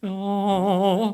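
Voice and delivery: sudden high, loud yelp of surprise; startled out loud mid-thought; caught off guard. Real, not acted. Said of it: "catch you off guard there a little bit".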